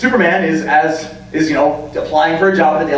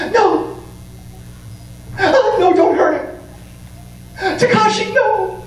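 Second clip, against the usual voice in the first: much higher, anguished mock plea; anime girlfriend plea; 14 semitones higher than usual. Girlfriend behind the pillar begging the villain, high anguished. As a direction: cry out for him in anime style.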